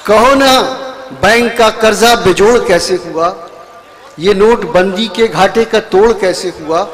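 sung-out verse with rising line ends; poetry recitation. Acted. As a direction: recite each couplet to the crowd. Poet recites verse again.

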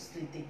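স্মৃতি said as সৃঁতি, the ম silent, the first sound nasal. Shown as a demonstration. Teacher demonstrating স্মৃতি with a nasal সৃঁ. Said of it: "দন্ত স রফলার উপরে একটা চন্দ্রবিন্দু".

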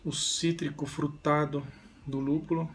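talking while sniffing beer; glass in front of mouth; speaking into a glass. Real, not acted. Seen 0: Holds beer glass at nose and mouth, sniffing aroma while talking.

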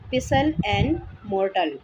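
पिसल said slowly as 'pissel', no T; silent T. Shown as a demonstration. Teacher naming pestle and mortar, silent T. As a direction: leave the T out of पिसल, slow and measured. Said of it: "टी यहाँ पे silent है".

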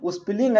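"स्पेलिंग" misread as "us-piling"; misread spelling. Shown as a demonstration. Teacher showing students a wrong reading, "स्पेलिंग" said "us-piling". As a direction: put a u before स्पेलिंग, "us-piling". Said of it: "आप गलत पढ़ रहे हैं".

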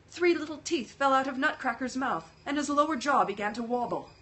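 lively storybook reading with voiced characters; story narration. A narrator's reading. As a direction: read it like a bedtime story with feeling. Reads Nutcracker story aloud.

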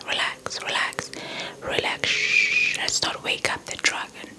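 ordinary delivery

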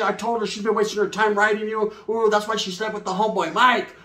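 hammed-up family telling-off; imitated scolding aunts. Acted aunts scolding the narrator.

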